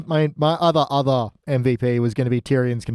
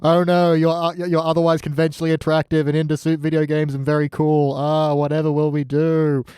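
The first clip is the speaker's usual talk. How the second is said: mock dismay; 2 semitones higher than usual.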